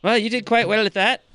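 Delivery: high skeleton official's voice; Pink the skeleton. Acted. Skeleton praises the form filing, high character voice. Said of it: "Pink the skeleton".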